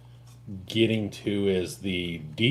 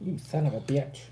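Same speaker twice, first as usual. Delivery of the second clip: cursing through laughter; laughing; 3 semitones higher, 6 dB quieter than usual. Real, not acted. Friend reacting to being teased, laughing. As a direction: laugh the insult out, softly.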